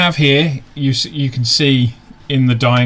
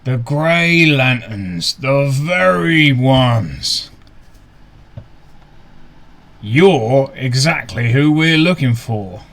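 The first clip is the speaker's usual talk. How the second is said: slow, booming Trollkin voice; slower than usual. Acted. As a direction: boom it out slowly like a big troll. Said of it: "You hear a booming voice".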